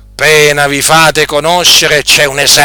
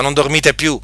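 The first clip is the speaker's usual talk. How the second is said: quiet aside; 7 dB quieter than usual. Acted. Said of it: "the same words said again louder".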